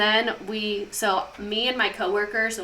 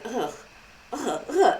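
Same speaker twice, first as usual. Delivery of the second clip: imitated disgusted grunts; slower than usual. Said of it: "and he was like".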